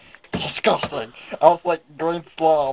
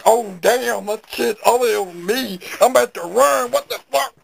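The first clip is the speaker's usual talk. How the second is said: mock panic; 3 semitones higher than usual. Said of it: "man, I'll be like".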